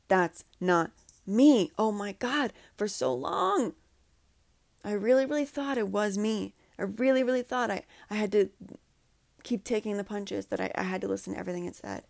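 real emotion welling up in the voice; emotional. Real, not acted. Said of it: "I'm sure you could feel it and hear it in my voice".

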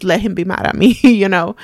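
brief rueful laugh at the end; said with a passing laugh. Real, not acted. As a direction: let a small laugh slip out as you finish. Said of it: "I'm laughing now".

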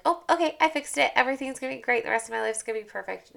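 high, bright mock cheer; high mock relief, speeding up at the end; mock naive relief. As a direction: play it falsely sure everything is fixed. Mocking naive relief quote.

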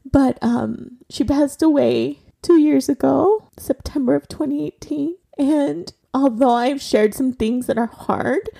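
real, tearful voice pitched slightly up; trying not to cry while honoring a loved one; holding back tears. Real, not acted. Daughter dedicating the podcast to her late mother, holding back tears. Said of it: "I'm gonna try not to cry".

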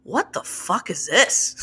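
slow, measured delivery of blunt words; mock-polite disbelief. Editor reacting to submitted chapters, with exaggerated politeness. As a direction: say the rude question politely, taking your time. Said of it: "very politely".

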